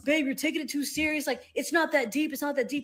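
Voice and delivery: lightly voiced dismissive boyfriend; mocking the boyfriend. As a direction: brush her off like a clueless guy. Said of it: "And be like".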